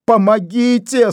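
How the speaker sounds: high slow moaning cry for help; стон. A narrator's reading. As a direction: groan out his pain. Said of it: "стонал Вайнер".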